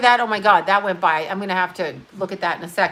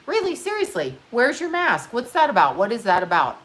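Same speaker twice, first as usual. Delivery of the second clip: incredulous; 2 semitones higher than usual. Real, not acted. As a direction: ask like it's absurd. Scolding Mike Pence.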